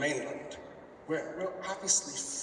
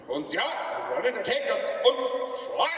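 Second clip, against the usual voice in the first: hammed-up German accent, high and loud; playful fake German accent, slow; mock German accent; 10 semitones higher, 5 dB louder, slower than usual. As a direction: ham up a German officer, pitched up. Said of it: "German all together".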